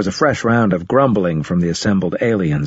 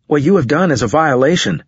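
indignant; 6 semitones higher than usual. A narrator's reading. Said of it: "unable to keep quiet".

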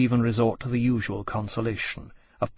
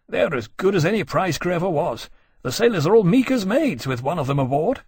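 higher-pitched, lively grumbling officer; lightly voiced exasperated officer; 6 semitones higher than usual. Officer grumbles to his friend about the dragon, exasperated. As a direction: complain about her with rueful energy.

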